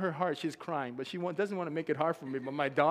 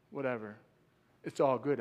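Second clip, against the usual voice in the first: low, casual shrug of a voice; lower-pitched nonchalance; unbothered; 4 semitones lower than usual. Retold or imitated. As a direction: brush it off sleepily. Acted unworried tired traveller.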